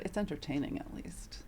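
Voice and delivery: soft whispered shrug; whispered shrug about her dating update; whispered aside. Real, not acted.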